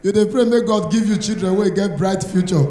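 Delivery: usual speaking voice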